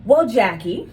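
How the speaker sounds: steady authority, each okay a checkpoint; firm nurse tone. Retold or imitated. Nurse firmly updating a relative on her brother, in a steady voice. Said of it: "keep the same tone of voice".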